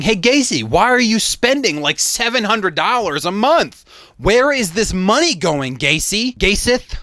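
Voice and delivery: a hammed-up nagging wife; mock nagging wife. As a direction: nag him like a suspicious wife. Mocking the wife's nagging questions.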